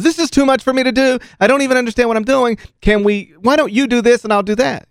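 retold complaint, voice lifted as if out of depth; overwhelmed complaining. Catcher begging to swap jobs, overwhelmed complaining.

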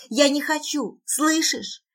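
high, tearful acted cry; high-pitched desperate protest; desperate scream. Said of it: "кричу, вцепившись в его запястье".

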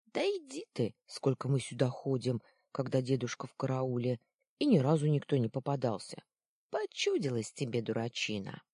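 put-on second boy, dismissive and teasing, rattling it off fast; arguing boy. Second boy waving off his friend, mildly scornful. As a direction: brush him off like a cocky kid. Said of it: "возразил другой голос".

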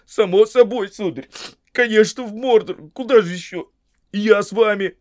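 high, loud, eager protest; worked-up, emphatic servant; agitated insistence. A narrator's reading. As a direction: insist you are coming along. Sam insists on coming along.

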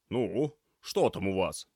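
слегка озвученный ворчливый продавец; другим тембром, с добродушной насмешкой; хозяин магазина. Acted. Голос Степаныча. (Степаныч встречает ребят с лёгкой насмешкой)

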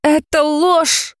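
high, slow, drawn-out cry; girl shouting at the dragon, high and slow. Acted. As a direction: fling the denial at him. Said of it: "закричала Нейзи".

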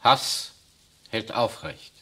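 a loud hard burst on one word; defiant shout. Acted. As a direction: spit the word back at him. Defiant retort to priest.

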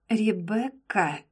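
a menacing warning of her name; threatening. A narrator's reading. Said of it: "В голосе лорда послышалась угроза". (с угрозой)

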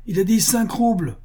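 high-pitched public announcement; strong-voiced call. A narrator's reading. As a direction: announce it to the whole crowd. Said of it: "cria-t-il d'une voix forte".

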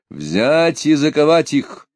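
high, loud slow command; commanding order. A narrator's reading. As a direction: order the arrest sternly. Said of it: "велел Пугачёв".

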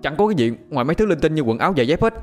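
loud answer. A narrator's reading. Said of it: "trả lời thật lớn".

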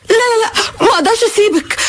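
a crying no, no, no; pleading through tears; tearful refusal. Acted. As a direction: sob the refusals out. Refusing to leave her mistress.

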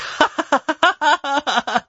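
high burst of laughter; mocking laugh. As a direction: laugh at the name. Boy laughs.

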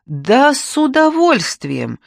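high, slow and eager, bursting out; blurted out eagerly. Acted. Mother to stranger, eager blurted acceptance. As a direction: let it escape with delight. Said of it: "вырвалось у меня".

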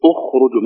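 اخرجوا said "ukhruju"; damma on hamza. Shown as a demonstration. Teacher confirming the rule, اخرجوا starting with u. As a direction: open اخرجوا on a clear u. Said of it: "لأن الراء مضمومة".

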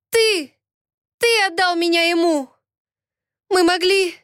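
heroine accusing her lover; accusing cry. Acted. (обвиняющий крик, выше)

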